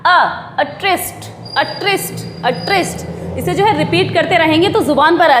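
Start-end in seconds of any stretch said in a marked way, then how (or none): 0.0-3.1 "अ ट्रिस्ट" as uh-TRIST, softer; soft, measured "अ ट्रिस्ट", uh then trist; syllable drill. Shown as a demonstration. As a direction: repeat "अ ट्रिस्ट" with pauses between takes. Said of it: "उसके बाद".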